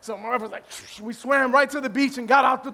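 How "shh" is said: quick hushed "shh" of speeding away; imitated whoosh. Comedian mimics dashing to the beach, soft whoosh. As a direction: blow a soft rushing noise. Imitates rushing off through water.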